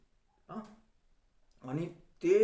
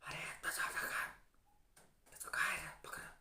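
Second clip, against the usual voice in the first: unvoiced whisper imitating a girl in class; hushed girl asking for an answer, whispering; whispered girl's voice; 15 dB quieter than usual. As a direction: breathe it out softly so the teacher won't hear. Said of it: "हळूच, लय नाजूक आवाज होता".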